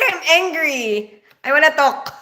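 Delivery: half-laughing retold anger, stretched "angry"; mock angry. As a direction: play angry in a Filipino accent. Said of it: "It's so annoying. I'm like".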